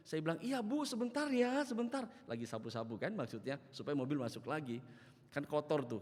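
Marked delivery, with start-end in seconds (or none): 0.4-2.1 high, hurried-to-please reply voice; placating call. Retold or imitated. Pastor answers the cranky neighbour, high placating call. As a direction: call back obligingly, pitched way up.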